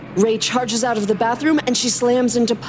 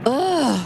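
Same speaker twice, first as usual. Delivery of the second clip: a louder whiny groan; louder whiny ugh; 5 semitones higher than usual. Acted. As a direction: groan it out in protest. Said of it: "she cries louder this time".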